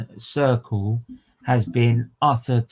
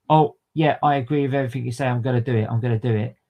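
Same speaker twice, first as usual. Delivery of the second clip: eager yes-man parody; faster than usual. Retold or imitated. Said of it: "Pretty much saying".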